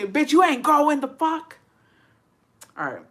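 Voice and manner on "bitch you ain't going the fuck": higher, louder mock outrage; mock angry boyfriend. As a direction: snap like the jealous boyfriend. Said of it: "he'd be like".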